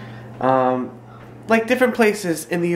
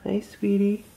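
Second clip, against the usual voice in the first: soft wake-up greeting; 3 semitones higher, 6 dB quieter than usual. Real, not acted. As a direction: gently greet her. Waking toddler from nap.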